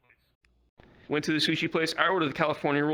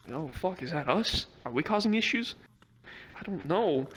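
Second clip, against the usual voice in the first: paranoid panic; 4 semitones higher than usual. Retold or imitated. Paranoid high self quoted.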